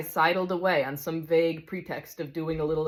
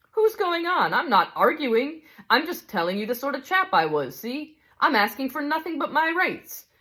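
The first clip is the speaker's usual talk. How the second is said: higher and louder, defensive protest; indignant big ghost; 5 semitones higher, 3 dB louder than usual. Acted. Big ghost insists on his rights to the spirit, indignant. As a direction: insist on your rights, stung.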